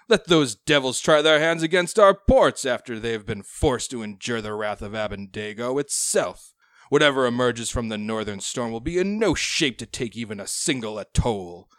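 loud, rousing pirate lord; defiant roar. Acted. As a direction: bellow defiance at the council. Pirate lord's defiant speech.

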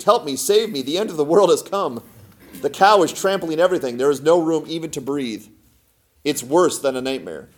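frantic plea. Acted. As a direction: plead as if disaster struck. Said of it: "he shrieked".

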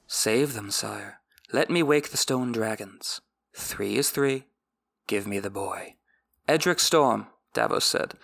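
measured audiobook reading; story narration. A narrator's reading. Recapper reads the book passage aloud in a measured narration. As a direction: read the chapter like an audiobook narrator.

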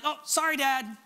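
light imitation of a kid's quick apology; childlike sorry. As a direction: toss it off like a kid caught out. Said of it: "It wasn't this child like".

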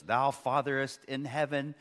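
lightly mocking King James prayer voice; a hint of pompous old-fashioned praying; mock old English prayer. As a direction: parody a stiff, archaic churchy prayer, slowing at the end. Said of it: "you don't have to talk like that".

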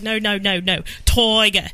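imitating an Aussie correcting "tiger" to "toy-ga"; Australian accent. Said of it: "And he's like".

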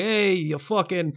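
imitating a Boston shopper yelling; Boston accent. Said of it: "you're doing Goodfellas right now".

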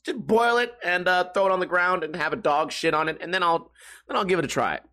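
lightly voiced girlfriend brushing it off; mimicking girlfriend. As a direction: toss off her order in a silly voice. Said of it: "She said".

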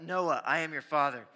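loud mock-villain declaration; Darth Vader. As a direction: boom it out as a prank. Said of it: "My Darth Vader voice".

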